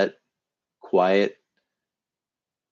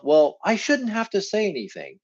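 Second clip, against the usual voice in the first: resentful inner voice; 8 semitones higher than usual. Retold or imitated. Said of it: "you might think to yourself".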